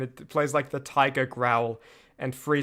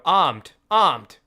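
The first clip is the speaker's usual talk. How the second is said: American accent demo; 6 dB louder than usual. Shown as a demonstration. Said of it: "just to say in an American accent".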